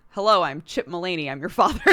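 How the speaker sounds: lightly voiced formal father; hammed-up formal dad intro; stiff formal dad. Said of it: "the way he starts it off".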